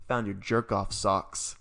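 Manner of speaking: slow, deliberate teasing grandma; lightly voiced grandma telling on him; grandma's reveal. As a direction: drop the bombshell slowly. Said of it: "She goes".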